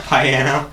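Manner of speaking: "Piano" repeated as pie-AN-o; echoed mispronunciation. Retold or imitated. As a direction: echo "Piano" with pie at the front. Echoes the joke pronunciation.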